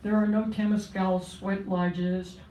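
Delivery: measured, steady poetry reading voice; poem reading. Acted. Poet reading her poem to the audience, solemn and steady.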